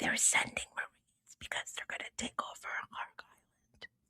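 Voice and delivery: hushed, conspiratorial, barely voiced whisper. Telling the guys a secret not to tell anyone: whispered. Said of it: "I'm gonna whisper this".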